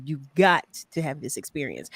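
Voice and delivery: ordinary talk, nothing marked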